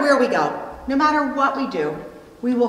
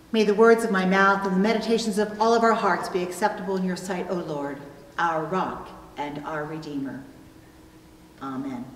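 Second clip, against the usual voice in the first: hushed, reverent prayer read, quicker at the start; 3 semitones lower, faster than usual. Acted. Pastor opening the sermon with a prayer, hushed and reverent.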